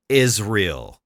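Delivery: "is real" drawn out to suggest Israel; punning delivery. Shown as a demonstration. Commentator slipping an Israel pun to viewers, "is real" slowed. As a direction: land slowly on "is real" as a pun. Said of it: "See what I did there?".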